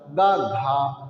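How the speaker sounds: गा short, घा breathy and longer; light गा then aspirated घा; teacher demo of aspiration. Shown as a demonstration. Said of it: "गा बोलने में कम, घा बोलने में ज़्यादा".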